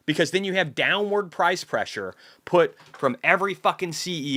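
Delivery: angry rant. Real, not acted. Streamer rants at Kamala voters, angry and building. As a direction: lose it at the viewers.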